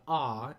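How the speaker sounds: "ah" with the open vowel of father. Shown as a demonstration. Teacher contrasting it with schwa, "ah" as in father. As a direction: sound out an open "ah". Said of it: "that'll be pronounced like".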